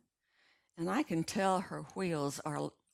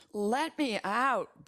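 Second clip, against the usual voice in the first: high, loud, slow insistence; louder demand; 5 semitones higher, 4 dB louder, slower than usual. A narrator's reading. Brandon demanding again to be let out, louder and slower. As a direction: repeat it harder, stretched out. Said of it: "louder this time".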